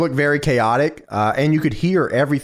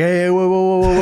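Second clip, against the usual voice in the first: higher-pitched retold backing-off babble; mock pleading; 7 semitones higher, 4 dB louder than usual. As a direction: play at begging him to back off. Acting out wrestler backing away.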